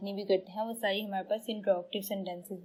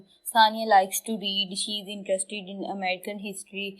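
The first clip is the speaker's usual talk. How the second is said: 1 example read slowly; much slower than usual. Shown as a demonstration. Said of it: "इसकी एग्जांपल दे दूँ".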